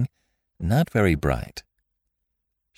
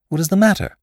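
high startled question; sharp alarmed asking; 14 semitones higher, 5 dB louder, faster than usual. Acted.

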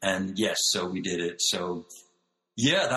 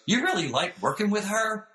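high, light imitation of a singer; a famous singer's voice; 12 semitones higher than usual. Imitating a singer asking if she likes working with another singer, high. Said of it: "I'd be with him and he goes".

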